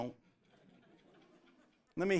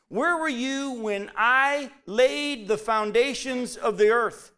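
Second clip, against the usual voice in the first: slow and rising, a hint of God's thunder; booming voice of God; 4 semitones higher, 5 dB louder, slower than usual. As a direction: give God's question slow weight. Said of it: "and said".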